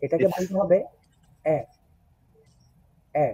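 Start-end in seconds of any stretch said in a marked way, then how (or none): 1.4-3.3 এ said long with a pull; teacher demonstrating the German ä; drawn-out umlaut vowel. Shown as a demonstration. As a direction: stretch এ out like a teasing drawl. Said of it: "একটু টান দিয়ে বলতে হবে".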